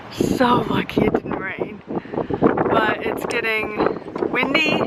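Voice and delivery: talking outdoors in gusty wind; wind on mic. Real, not acted. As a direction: wind noise over voice. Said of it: "sorry for all the wind noise".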